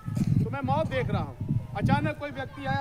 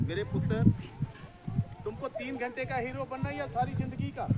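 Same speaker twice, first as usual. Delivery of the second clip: voice from above; 4 dB quieter than usual. Retold or imitated. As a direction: lift the first words like a voice calling down from heaven. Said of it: "आवाज आती है ऊपर से".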